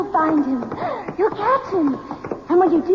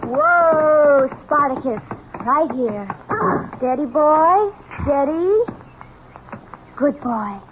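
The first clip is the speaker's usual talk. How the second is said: calming the horse; 2 semitones lower, slower than usual. Acted. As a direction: settle the stallion gently.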